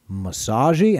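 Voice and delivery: put-on Japanese accent. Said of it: "I almost got a little racist with the accent".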